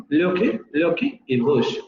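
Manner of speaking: lucky said with a rounded u sound, like loki, at a slow pace; lucky pronunciado loki, como en el norte de Inglaterra; northern English vowel. Shown as a demonstration. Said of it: "en el norte de Inglaterra ... pronunciaban lucky".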